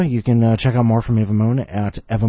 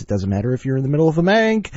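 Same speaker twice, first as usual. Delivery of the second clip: fast excited; 7 semitones higher, 5 dB louder, much faster than usual. Pretend. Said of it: "Shout it all at once".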